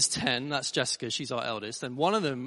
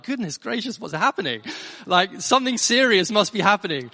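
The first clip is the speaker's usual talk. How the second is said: raised-pitch mock alarm; retold alarm; 4 semitones higher, 5 dB louder than usual. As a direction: play a startled parent overhearing trouble. Retold alarm at daughter's shouting.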